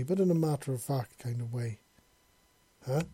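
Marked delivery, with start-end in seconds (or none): 2.9-3.0 a sudden startled huh; quick, startled question; surprised exclamation. Acted. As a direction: blurt it out, caught off guard. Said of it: "he exclaimed".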